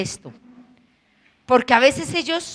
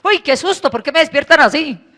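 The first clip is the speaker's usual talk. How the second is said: mock fright; 4 semitones higher, 5 dB louder than usual. Lord startled, playful.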